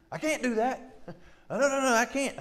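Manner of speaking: high, whiny "I can't" in mockery; whiny high mock insecure voice. Preacher mocking an insecure churchgoer, whiny high voice. Mimics person refusing to try.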